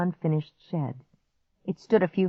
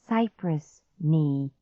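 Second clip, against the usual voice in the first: calm; much slower than usual. Acted. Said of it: "I said calmly".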